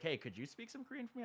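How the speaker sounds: high, softly pleading girl imitation; imitated girl's request.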